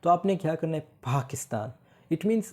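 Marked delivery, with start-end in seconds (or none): 0.8-1.7 पाकिस्तान with a puff of air after the p, like ph; पाकिस्तान said as phakistan; aspirated p. Shown as a demonstration. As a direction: breathe out hard on the first sound of पाकिस्तान. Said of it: "पी के आगे मैंने एच लगाना है".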